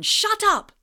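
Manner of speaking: high furious shout. Acted. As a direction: explode in rage. Harry explodes at Snape.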